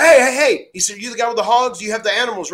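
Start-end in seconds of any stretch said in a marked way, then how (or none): 0.0-0.7 high loud eager hails; roaring call. Retold or imitated. Owen roaring out to the hog delivery men. 1.0-2.5 excited. Retold or imitated. Owen greeting hog delivery.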